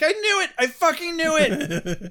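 put-on high, loud little-girl outburst; hammed-up triumphant squeal; mock girlish vindication. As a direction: crow it like a vindicated kid. Little girl vindicated, immediately exclaims.

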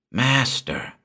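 high, drawn-out servant's address; breathed address. A narrator's reading. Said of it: "breathed Gurs".

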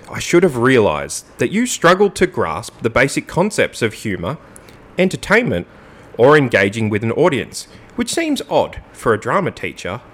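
pointed mock-formal reading; swooping radio read with deliberate emphasis; sexy radio voice. Host reads co-host's jibe at drama teacher, radio voice. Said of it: "get it in my sexy radio voice".

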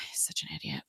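real whispered aside, sighing first; a fed-up muttered aside; exasperated whisper. Real, not acted. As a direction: breathe it out under your breath. Exasperated aside about the character.

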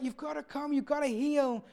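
mild anguished cry for help; tearful pleading. Retold or imitated. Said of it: "they're crying out".

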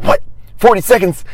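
high, loud disbelieving question; can't believe the number; surprised. Retold or imitated. Disbelief at his time.

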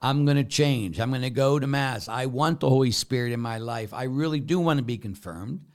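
lightly voiced promise to Father; mock penitent promise. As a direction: play the eager repentant parishioner. Parishioner promising to change.

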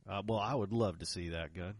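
polite, deferential Texas drawl. Shown as a demonstration. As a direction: put on a mild Texas drawl. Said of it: "put on your best Texas drawl".

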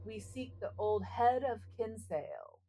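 measured, rhythmic reading of a spooky ballad; poem recitation. Acted. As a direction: recite it like a ghost story by the fire. Reads spooky Halloween poem aloud.

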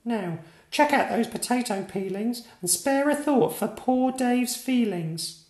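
a small knight telling off the town; indignant piping kid lecture; furious little knight. A narrator's reading. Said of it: "a furious knight with eyes aflame".

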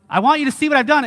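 put-on proud kid urging Dad to look; excited kid. Child wanting Dad to see the clean room, excited. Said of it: "Like, you're just excited".

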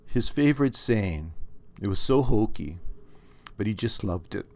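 measured storytelling read; story narration. A narrator's reading. Author reading his story to viewers, measured. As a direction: read the story out steadily to listeners.

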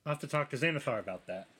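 quick, light character voice; Badger's voice. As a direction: rattle it off in character. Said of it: "He says in Badger's voice".

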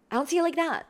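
overly reactive insistence; too sharp. Shown as a demonstration. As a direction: press the point too hard. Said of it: "a little bit too much on your point".

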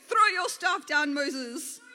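big shouted storybook command; booming yell. A narrator's reading. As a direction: boom out the order, easing on the name. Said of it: "yelled in a booming voice".

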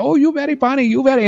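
high-pitched mock Asian accent; put-on Asian accent, pitched well up. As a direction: imitate coworkers teasing in a fake Asian accent. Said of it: "I mean, in that accent".

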